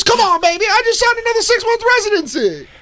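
high, put-on Hulk Hogan voice; Hulk Hogan impression. Friend mimics Hulk Hogan bragging about his residency, in a high put-on voice. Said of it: "He goes".

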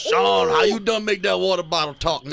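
put-on Creole accent. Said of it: "super Creole".

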